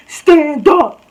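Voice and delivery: high, loud mock shriek. Tiny girl starts raising her voice, high mock shriek. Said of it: "like, raise her voice".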